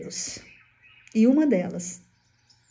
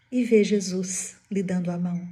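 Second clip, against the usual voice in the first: usual speaking voice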